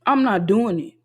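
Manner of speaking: loud, firm refusal. Real, not acted. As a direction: say it loud and final. Emphatic refusal after pause.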